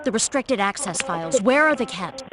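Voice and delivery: insistent demand. Pretend. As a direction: press the question harder. Repeating demand louder to caller.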